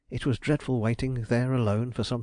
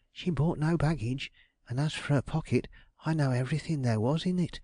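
a hint of a put-upon woman, pitched up; a fretful widow lightly voiced, higher; lightly voiced aggrieved landlady; 4 semitones higher than usual. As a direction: complain as a flustered landlady. Belden answering the detective.

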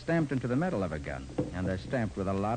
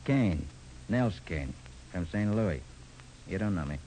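gangster voice; 4 semitones lower than usual. Acted. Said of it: "in my best gangster voice".

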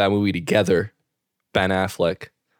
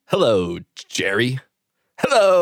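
a light take on the sitcom greeting; Newman impression; 3 semitones higher than usual. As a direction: Seinfeld mailman's sneering hello. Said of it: "He's like".

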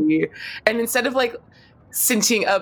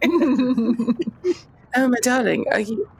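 concerned comforting; 6 semitones higher, slower than usual. Acted. Acted comforting of crying friend.

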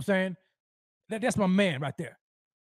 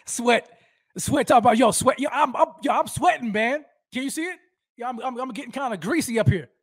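hyped yelling; 2 semitones higher, 4 dB louder than usual. Real, not acted. Hyped host yelling about sweating.

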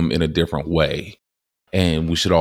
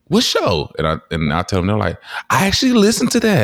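surprised stranger; 4 semitones higher, faster than usual. Retold or imitated. Strangers quoted, very high.

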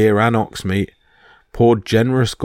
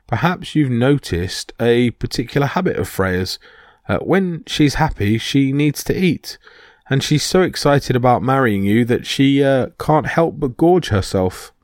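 Loki in a higher, mock-dainty voice; sweet, higher bridesmaid voice; high-pitched voice; 4 semitones higher than usual. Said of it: "said Loki in a high-pitched voice".

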